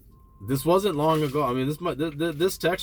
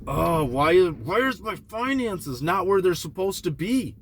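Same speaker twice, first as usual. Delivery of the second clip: frustrated self-questioning; 7 semitones higher than usual. Retold or imitated. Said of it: "I'm like".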